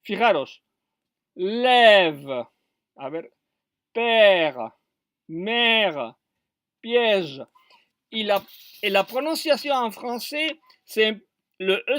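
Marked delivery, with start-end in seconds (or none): 1.4-3.3 "lève" with a long, falling è; lengthened open E. Shown as a demonstration. Teacher showing Spanish speakers the grave accent, drawn-out "lève". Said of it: "c'est un peu plus long". 3.9-7.5 "père, mère, piège" each with a long, falling è; lengthened open E. Shown as a demonstration. Teacher giving grave-accent examples, drawn-out "père, mère, piège". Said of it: "c'est un peu plus long".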